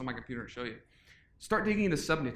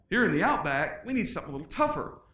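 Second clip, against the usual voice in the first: Australian accent; 2 semitones higher than usual. Shown as a demonstration. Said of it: "I do an Australian voice, but it would be awful".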